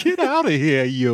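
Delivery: put-on high, laughing old-man yell; shouting at trespasser. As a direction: shoo them off in a high voice.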